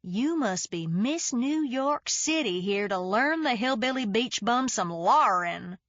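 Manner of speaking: light hick twang, mocking; exaggerated hick accent. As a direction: tease her in a hillbilly accent. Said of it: "in an exaggerated hick accent".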